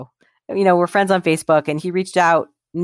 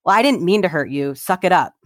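dismissive non-apology; 2 semitones higher than usual. Pretend. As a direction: shrug off the hurt you caused, lightly acted. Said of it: "I'll be like".

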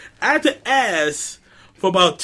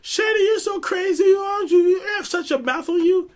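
high white mom voice; 12 semitones higher than usual. Retold or imitated. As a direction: play a chirpy white mom who shrugs it off. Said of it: "And she's like".

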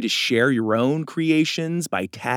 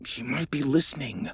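softer, hushed warning; lowered voice; 6 dB quieter than usual. Acted. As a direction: drop the voice, wary of eavesdroppers. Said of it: "Doug lowered his voice".

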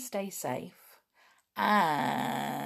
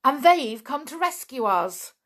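excited; 4 semitones higher, 5 dB louder than usual. Acted. Dick excited about rescue.

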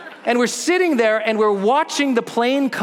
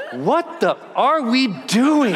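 slow scared disbelief; 4 semitones higher, much slower than usual. Retold or imitated. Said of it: "I'm looking at them like".

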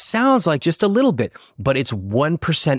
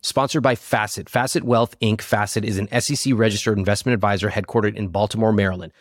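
lively sponsor pitch; ad read; 3 dB quieter than usual. Acted. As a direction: sell it like a podcast ad.

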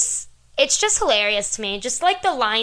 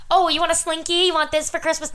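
higher, teasing movie line; movie quote voice; 6 semitones higher than usual. Retold or imitated. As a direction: taunt like the film character. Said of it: "here's some good quotes from the movie".

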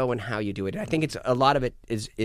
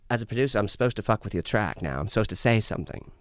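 lightly British producer, lower-pitched; British accent; 3 semitones lower than usual. Retold or imitated. Producer explaining his silence to the artist, British accent. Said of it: "What, is he British?".

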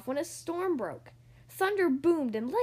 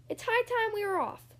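high, eager captain's announcement; lifted proclaiming voice; announcing; 7 semitones higher than usual. A narrator's reading. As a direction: announce it to the crew. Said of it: "he announced".

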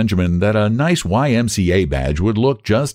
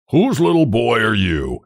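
put-on mildly indulgent question to a child; kindly; 3 semitones higher than usual. A narrator's reading. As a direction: ask it kindly, with light amusement. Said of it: "he demanded kindly".

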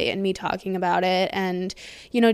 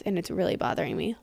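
normal talking voice

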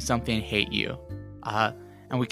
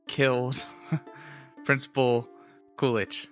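mustache twirling villain; 4 dB quieter than usual. Acted. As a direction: draw it out like a scheming villain. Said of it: "I twirl my mustache".

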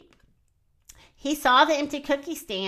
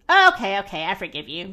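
sighing; 3 semitones lower, 4 dB louder, faster than usual. Acted. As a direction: give in with a big deflating sigh. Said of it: "Mister Blakeman sighed".

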